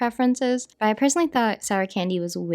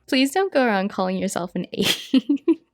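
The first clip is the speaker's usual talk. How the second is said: laughing. Real, not acted. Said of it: "laughing through first try".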